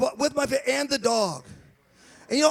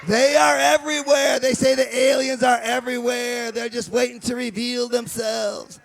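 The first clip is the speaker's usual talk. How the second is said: dramatic TV narrator; 6 dB louder than usual. Pretend. Mock Ancient Aliens narrator.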